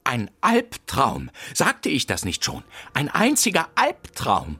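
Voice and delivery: lauter, gedehnter Klageruf; theatralisches Jammern. Acted. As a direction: dramatisch klagen. Jammert über das Gespenst. (Kekserfinder klagt der Detektivin sein Leid, theatralisch)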